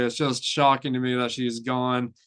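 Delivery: ordinary talk, nothing marked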